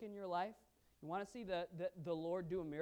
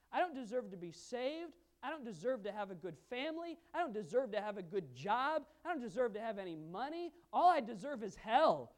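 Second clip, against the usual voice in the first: rising to a loud, desperate plea; preacher voicing the woman's fervent prayer; pleading prayer; 3 semitones higher, 6 dB louder than usual. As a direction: beg God for mercy, building to a cry. Acting the woman's humble plea.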